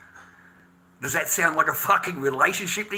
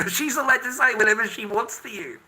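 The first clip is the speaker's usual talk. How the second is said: higher-pitched, breaking into a laugh; laughing scornfully; 7 semitones higher than usual. Real, not acted. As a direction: say it through an incredulous laugh. Laughing mid-rant about her.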